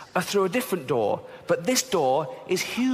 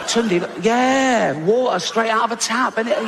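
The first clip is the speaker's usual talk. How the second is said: louder, proud showing off; bossy mock parent; 6 semitones higher, 5 dB louder than usual. A comic parent boasting about tap water, loud. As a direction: boom it out like showing off a prize. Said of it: "I'd go".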